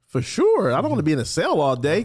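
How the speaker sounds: eager reply. Retold or imitated. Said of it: "I was like".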